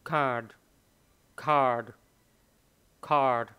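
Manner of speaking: card with an aspirated k and a light d; soft final d. Shown as a demonstration. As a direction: say card, with the d only breathed gently. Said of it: "họ phát âm ra rất là nhẹ".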